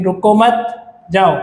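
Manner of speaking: "रुको मत" together, pause, then "जाओ"; pause after मत. Shown as a demonstration. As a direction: slowly join "रुको मत", break before "जाओ". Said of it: "फिर दूसरा हम यहाँ पर रीड करेंगे".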